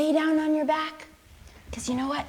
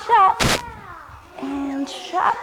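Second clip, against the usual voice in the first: higher, louder burst on chop; 6 semitones higher, 4 dB louder, much slower than usual. Shown as a demonstration. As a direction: shout the chop like swinging an axe. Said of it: "and you take a big breath".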